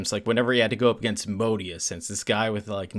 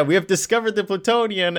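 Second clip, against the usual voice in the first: lightly voiced announcer, higher and louder; news announcer; 8 semitones higher, 4 dB louder than usual. Newscaster voice in retold scene.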